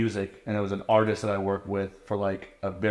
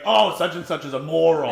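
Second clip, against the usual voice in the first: laughing insult; 6 semitones higher, 6 dB louder than usual. Retold or imitated. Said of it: "I'd just be like".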